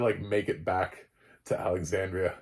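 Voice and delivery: usual speaking voice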